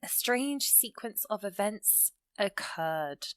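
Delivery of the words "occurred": slow "occurred", weight on its second syllable; stress on second syllable. Shown as a demonstration. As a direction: lean on the end of "occurred". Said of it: "that emphasis is on the, the second".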